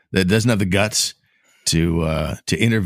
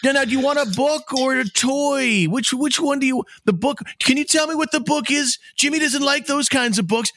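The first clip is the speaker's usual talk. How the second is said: loud doting mother. Retold or imitated. Host mocking a McDonald's mother, very high sing-song. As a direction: parody a mom talking down to her child. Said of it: "encountered one of them at McDonald's".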